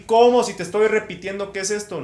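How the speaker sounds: loud, high-pitched incredulous outburst; indignant teacher. Retold or imitated. Imitating the irritated teacher's reaction.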